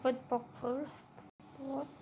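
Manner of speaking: English words in a strong French accent; vote purple with a French accent. Real, not acted. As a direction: say it like a French gamer speaking English. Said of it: "désolé avec mon accent".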